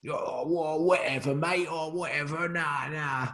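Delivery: lightly voiced, offhand promoter brushing it off; a hint of a dismissive boxing promoter, half under the breath; Eddie Hearn impression. Interviewer mimicking Eddie Hearn to the boxer, lightly dismissive. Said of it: "That's my Eddie Hearn impression".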